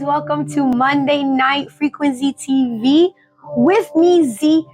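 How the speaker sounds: hoarse from allergies; a scratchy, raspy throat. Real, not acted. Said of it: "my raspy voice a little bit".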